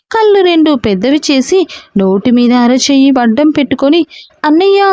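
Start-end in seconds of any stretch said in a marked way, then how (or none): 4.4-4.8 short high frightened call; frightened cry. A narrator's reading. Sister calls up to her dangling brother, frightened cry. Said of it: "అంది భయంగా".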